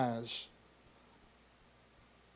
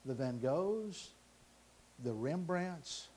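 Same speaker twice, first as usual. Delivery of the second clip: soft, low, with long pauses; hushed solemn reveal; 4 semitones lower, 7 dB quieter, slower than usual. Acted. Old man's will revealed to the crowd, hushed and solemn. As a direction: let each phrase land quietly.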